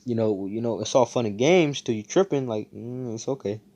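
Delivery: very high, loud flustered backtracking; nervous backpedal. Retold or imitated. Austin backing down from Asta's threat, high-pitched and flustered. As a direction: scramble to laugh it off, rattled. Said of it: "Austin was like".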